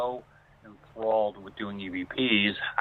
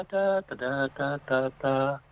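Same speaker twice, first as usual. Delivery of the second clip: imitated humming; 4 semitones higher, slower than usual. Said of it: "I've never heard humming".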